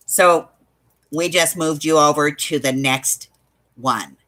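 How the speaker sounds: imitating an unenthusiastic phone agent; lightly mock a joyless service script; snarky.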